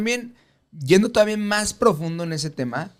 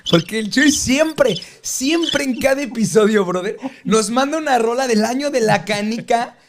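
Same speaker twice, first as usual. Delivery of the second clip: higher, animated teasing complaint; mock exasperation; 8 semitones higher, 3 dB louder than usual. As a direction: rant at your buddy in playful disbelief. Queja en broma contra Chuy. (queja exagerada y burlona, en tono agudo)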